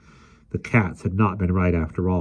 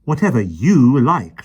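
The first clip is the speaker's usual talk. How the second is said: calm; 6 semitones higher, 8 dB louder than usual. A narrator's reading. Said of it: "she answered calmly".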